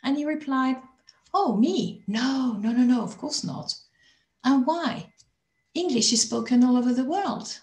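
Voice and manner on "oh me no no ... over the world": higher-pitched mock surprise, brushing the question off; lightly hammed-up incredulous reply; imitated dismissive man. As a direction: imitate someone smugly dismissing the very idea. Retold man scorns learning foreign languages.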